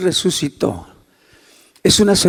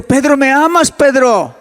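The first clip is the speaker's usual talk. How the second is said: pressing question; 6 semitones higher than usual. Retold or imitated. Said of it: "una tercera vez le dice Jesús".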